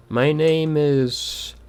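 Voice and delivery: slow, high, eerie corpse voice; talking corpse. Acted. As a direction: drag out the words like the dead. Corpse voice drawn out.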